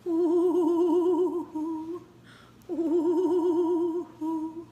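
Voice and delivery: high wavering ghostly oohs; wavering witchy ooh; spooky ooh. Pretend.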